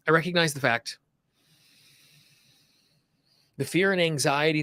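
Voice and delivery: measured lead-and-repeat delivery with long pauses; guided tapping affirmations. Shown as a demonstration. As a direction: say each affirmation phrase by phrase, leaving room to repeat. Leads repeat-after-me tapping affirmations.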